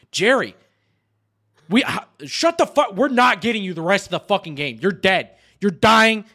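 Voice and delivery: mildly heated, reenacted telling-off; pissed off. Squad refusing to rescue downed Jerry, mildly pissed off. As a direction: lay down the law to a teammate. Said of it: "we were pissed".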